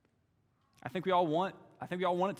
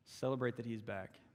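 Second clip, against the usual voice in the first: much softer repeat, inward; softer echo; 3 semitones lower, 6 dB quieter than usual. Real, not acted. Preacher urging the church to rejoice, softly. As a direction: say it again quietly to sink in. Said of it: "quiet repeat of line 82".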